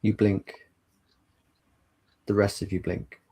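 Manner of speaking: measured game master narration with long pauses; scene-setting narration. A narrator's reading. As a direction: set the scene unhurriedly, pausing between phrases.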